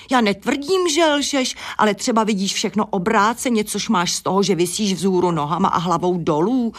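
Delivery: a lightly voiced, self-assured hen; know-it-all hen. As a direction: set the bat straight, high and quick at first. Hen Adéla lectures the bat.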